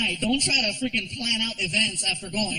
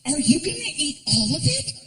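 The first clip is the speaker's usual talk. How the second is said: higher, suspicious woman's voice; mock girlfriend grilling him, pitched up; 5 semitones higher than usual.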